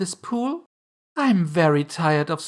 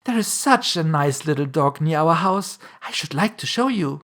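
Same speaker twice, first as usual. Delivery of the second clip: put-on higher-pitched gushing girl; eager; 6 semitones higher, 4 dB louder than usual. A narrator's reading. Alice tells the mouse about a neighbour's dog, eagerly. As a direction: chatter on keenly, pitched up. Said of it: "so Alice went on eagerly".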